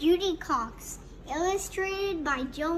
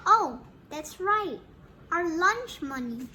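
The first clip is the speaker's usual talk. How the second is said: put-on kids shouting; 3 semitones higher, 4 dB louder than usual. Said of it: "we shout".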